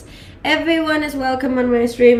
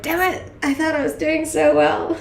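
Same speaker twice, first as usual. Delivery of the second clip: frustrated self; 7 semitones higher than usual. Retold or imitated. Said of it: "'cause I'm like".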